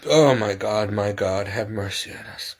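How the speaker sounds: low, fading sigh of a prayer; weary plea. Real, not acted. Worn-out woman appeals to God for mercy, wearily. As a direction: let it sink away into near-silence.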